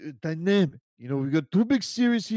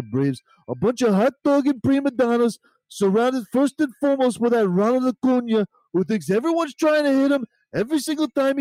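Macho Man wrestling promo; 2 semitones higher than usual. Pretend. Macho Man guest hypes the Marlins for the series with a mock wrestler promo. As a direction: cut a fiery wrestling promo on the rivals. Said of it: "it would go something like this".

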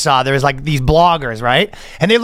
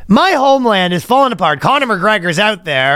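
bad Irish accent; 3 semitones higher than usual. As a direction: lament it in hammed-up Irish. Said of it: "That's a bad Irish accent".

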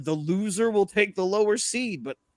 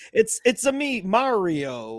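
half-assed Mario impression; 4 semitones higher, slower than usual. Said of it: "doing this half-ass version of it".

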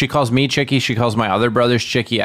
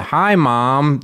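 slight Wisconsin accent greeting; triggered home accent; 2 semitones higher than usual. Shown as a demonstration. Greeting mom to trigger the accent, slight Wisconsin accent. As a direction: lapse lightly into a Wisconsin accent. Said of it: "That tr-, triggers it".

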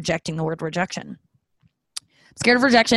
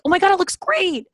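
mock gushing; 12 semitones higher, 4 dB louder than usual. Retold gushing to hairdresser.

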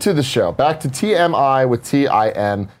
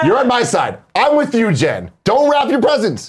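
high, raised cheer of support; rallying shout; 7 semitones higher, slower than usual. Real, not acted. Co-host sides with Jen against the boos, shouting high. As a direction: call it out over the booing. Rallies loudly over the boos.

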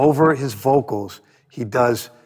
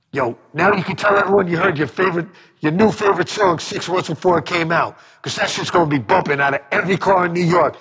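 higher, fast MC pitch to the crowd; a rapper's hype voice; 4 semitones higher than usual. Retold or imitated. A rapper telling the crowd about another artist's song, lightly raised hype voice. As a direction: sell the new song like a hype man. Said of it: "And K R S One goes".

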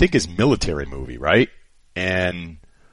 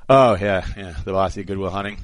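mock Boston accent. Jaded famous guest, in a dismissive Boston accent. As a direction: sneer at an old joke in a Boston accent. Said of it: "he'd be going".

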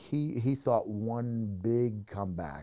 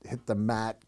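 usual speaking voice

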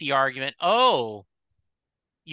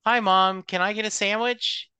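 imitating a kid; 6 semitones higher than usual. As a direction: play the child pestering mom for food. Mom retells kid asking for sandwich.

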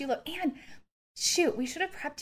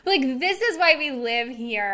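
tearful and a bit louder; choked up; 3 semitones higher, 5 dB louder than usual. Real, not acted. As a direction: say it with a catch of tears. Emotional about city life returning.

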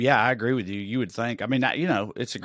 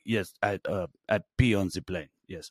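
lightly voiced French actor; lazy French admission; French accent; 5 semitones lower, 4 dB quieter than usual. French actor owning up to the host, light French accent. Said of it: "he's like".

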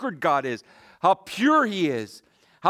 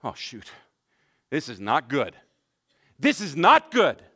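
mock dismay; 3 dB louder than usual. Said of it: "But we might say".

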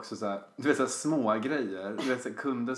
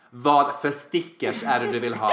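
loud, irritated retort; fed-up customer service, acted; irritated phone manner; 3 semitones lower, 5 dB louder than usual. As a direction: act out impatience on the phone, loudly. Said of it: "irriterad konstant".

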